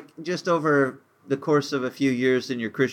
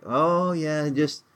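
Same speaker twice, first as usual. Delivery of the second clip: bright put-on fine, a bit higher; faked cheerfulness; 4 semitones higher, slower than usual. Someone asked how they are, hiding it behind a cheery fine. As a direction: brush off the question with a cheery mask. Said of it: "We, we fake it".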